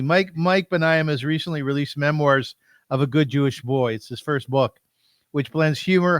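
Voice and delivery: measured promotional blurb reading; presenter reading a prepared introduction; formal introduction read. Real, not acted. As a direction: read it out like a book jacket. Reads guest's book introduction.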